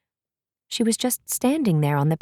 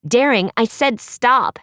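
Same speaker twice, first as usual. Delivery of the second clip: louder, firm repeated order; yelled order; 4 semitones higher, 4 dB louder than usual. Acted. Raven shouting at the prince to stop, firm yell. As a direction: insist sharply that he stop. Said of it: "Raven yelled".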